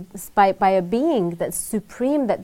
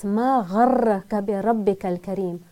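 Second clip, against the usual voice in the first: Quranic recitation; much faster than usual. Acted. Quoting the Quran in Arabic.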